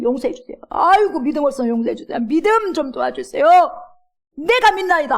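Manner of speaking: begging cry. Retold or imitated. Father begging Jesus to heal his child, pleading. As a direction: plead desperately with a wail.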